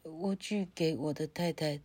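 soft stammering fearful plea; frightened man. Acted. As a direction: stammer it, scared. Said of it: "这个男人说".

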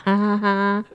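nervous laugh. Real, not acted. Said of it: "好尴尬".

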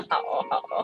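breathless whispered okay okay; whispered reply. Retold or imitated. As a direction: mutter it under your breath. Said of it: "我想说".

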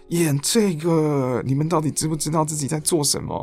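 exasperated disbelief. Retold or imitated. 当我看到的时候，想说：.

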